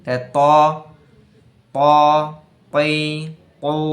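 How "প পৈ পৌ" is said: প পৈ পৌ said short and firm with no breath escaping; held-breath voiced syllables; letter drill. Shown as a demonstration. Teacher drilling letter syllables, firm voiced. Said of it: "বাতাস বেরায় না".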